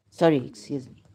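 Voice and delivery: ordinary delivery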